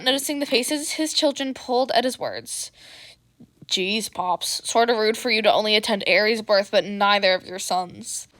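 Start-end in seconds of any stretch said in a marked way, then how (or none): 3.7-8.3 lazy drawl. Acted. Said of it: "Hitoshi drawled lazily".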